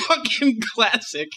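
high, slow, through laughter; cracking up. Real, not acted. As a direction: savour it while laughing hard. Cracking up after the clip.

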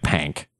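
"pank" with the open vowel of bank; imitated accent. Explaining to friend how pink sounds, mimicked "pank". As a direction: stretch "pank" slowly with a wide "a". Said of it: "when you say pink".

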